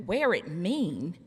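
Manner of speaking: wear it mean? rising at the end, puzzled; puzzled question. Retold or imitated. Daughters questioning mother's hat advice, mildly puzzled. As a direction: ask wear it mean? back in mild confusion. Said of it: "We said, Well".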